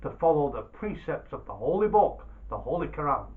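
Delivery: loud, pleading merchant; wheedling merchant. Acted. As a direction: coax the Dervish into giving back. Baba Abdallah pleads with Dervish.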